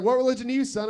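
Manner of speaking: a hint of a probing preacher; Baptist minister. Baptist minister questions a young man's faith, lightly mocking voice. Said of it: "talking to a Baptist minister".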